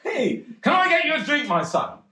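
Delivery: high hammed-up Cockney chap; Cockney punter. Pub regular praises his playing, hammed-up Cockney voice. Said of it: "this chap came up to me and he said".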